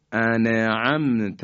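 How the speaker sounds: انعمت said as "ane-amt", the nun given a vowel; slow, with a vowel slipped after the nun; wrong voweled nun. Shown as a demonstration. Teacher shows students the wrong voweled nun. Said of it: "اگه نون ساکن رو حرکت بدیم".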